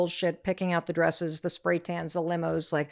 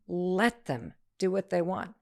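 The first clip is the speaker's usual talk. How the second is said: calm last repeat. Retold or imitated. Daughter's final repeat that brings peace, slow and calm. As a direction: let it land gently and slowly. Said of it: "by the time she said it the last time".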